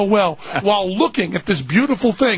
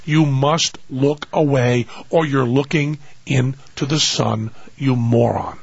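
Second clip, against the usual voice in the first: mock warning; 4 semitones lower than usual. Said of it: "everybody tells you".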